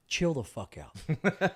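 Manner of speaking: slow, drawn-out calm doctor; mild laid-back doctor; slow deadpan advice. Retold or imitated. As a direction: lay it out slowly.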